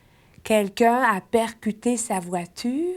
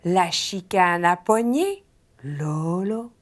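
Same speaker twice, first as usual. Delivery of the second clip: slow drill; 3 semitones lower, slower than usual. Shown as a demonstration. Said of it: "Encore une fois".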